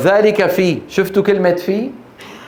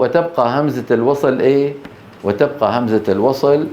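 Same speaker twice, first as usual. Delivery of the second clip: sleepy; 3 semitones lower than usual. Pretend. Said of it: "نعسانة".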